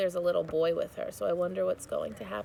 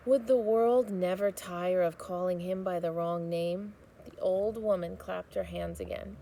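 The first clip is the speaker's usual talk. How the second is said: put-on steady storybook reading for children; read-aloud narration. A narrator's reading. Teacher reading a chapter aloud to students, storybook narration. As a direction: read the chapter to the class, gently paced.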